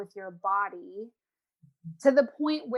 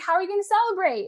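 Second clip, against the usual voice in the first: bright excited question; 10 semitones higher, 7 dB louder, much faster than usual. Retold or imitated. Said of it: "I'm like".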